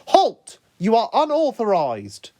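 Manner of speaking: put-on loud high yell, Japanese accent. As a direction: bark it like an alarmed guard. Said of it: "one of the ninjas yelled in a Japanese accent".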